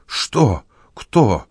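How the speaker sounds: a touch of panic, grabbed from behind; lightly voiced startled yelp; alarmed shout. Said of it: "закричал беспокойный старик".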